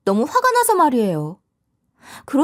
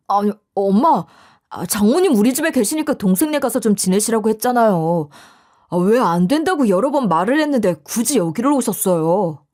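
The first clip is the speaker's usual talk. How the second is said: lightly voiced fed-up son scolding his mother; exasperated son. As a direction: mildly reproach your mother for turning up. 찾아온 어머니를 나무라는 남편. (어머니에게 짜증 섞어 따지는 아들)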